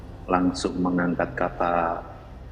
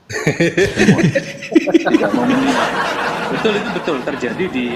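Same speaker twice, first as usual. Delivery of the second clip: loud, high laughing speech; cracking up while insisting it's true; 9 semitones higher, 6 dB louder than usual. Real, not acted. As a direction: push the words out through real laughter. Laughs that everyone would leave.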